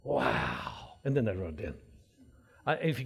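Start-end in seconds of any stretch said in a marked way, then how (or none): 0.0-0.7 drawn-out mock "wow"; imitated audience awe. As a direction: imitate an awed crowd's wow. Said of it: "The atmosphere is exciting".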